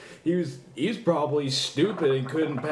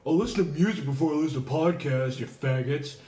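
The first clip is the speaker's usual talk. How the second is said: mock friend voice; 3 semitones higher than usual. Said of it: "what is he like?".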